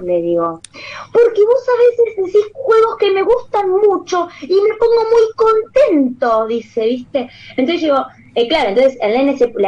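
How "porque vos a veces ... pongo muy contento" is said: put-on high, slow, tearful child voice; shy little boy. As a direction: imitate the small boy explaining, emotional. Little boy explains his tic.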